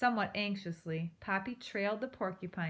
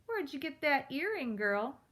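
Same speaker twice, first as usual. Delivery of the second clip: shrieked; 6 semitones higher than usual. A narrator's reading. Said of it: "he shrieked at Poppy".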